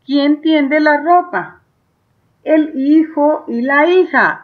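teacher rereading the question. Shown as a demonstration. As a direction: read the question back at a steady, careful pace. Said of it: "Y ahora".

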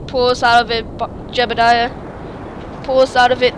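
loudly urging on; urgent loud. Real, not acted. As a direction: push the pilot to pull up.

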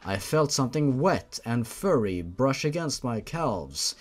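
steady audiobook narration of a grim tale; story narration. A narrator's reading. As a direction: read it like a dark bedtime story. Reads fanfiction chapter aloud.

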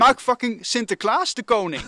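loud, high, fired-up proposal; excited. Real, not acted. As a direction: announce it with big excitement. Excited pitch of absurd idea.

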